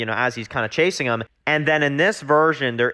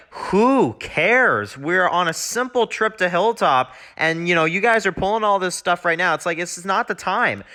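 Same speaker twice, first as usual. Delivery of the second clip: higher, mock-frustrated Glenn scolding the group; retelling Glenn telling them off, higher and annoyed; exasperated Glenn; 4 semitones higher than usual. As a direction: act out Glenn's irritation, a bit higher. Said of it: "And Glenn's just like".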